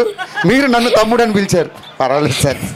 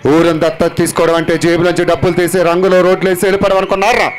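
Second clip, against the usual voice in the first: Mahesh Babu voice; 4 semitones lower than usual. Pretend. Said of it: "నేను చేసింది Mahesh Babu sir".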